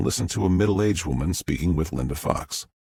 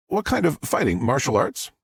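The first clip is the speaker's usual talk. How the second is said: upbeat live news report voice; TV reporter; 6 semitones higher than usual. Acted. Reporter Fox addresses the camera in a live news voice. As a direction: deliver it like a reporter live on air.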